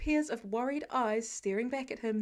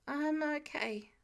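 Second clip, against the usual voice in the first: hesitant; 3 semitones higher, slower than usual. Acted. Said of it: "he finally settles on".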